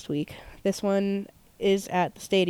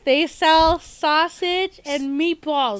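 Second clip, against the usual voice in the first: slow, higher, hammed-up Italian accent; a badly faked Italian-American accent, drawn out slowly; 7 semitones higher, much slower than usual. Shown as a demonstration. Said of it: "I can't do an Italian accent to save my life".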